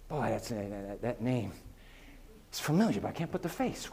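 low, soft, musing mumble; hammed-up struggle to remember; mock forgetful God. Mock God fumbling for a name.

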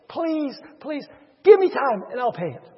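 acted begging for time; mildly hammed-up pleading; mock crying plea. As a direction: plead as a tearful debtor. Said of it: "He starts crying out".

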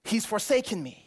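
acted gasp, then halting dismay; stricken realization. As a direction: act out suddenly realizing you are abandoned. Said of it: "It's like he realizes".

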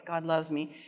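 low, soft, feeble little declaration; small, pitiful voice, dropped low and quiet; pitiful weak voice. Retold or imitated. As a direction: say it weakly, barely believing it. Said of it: "kind of in this pitiful little weak voice".

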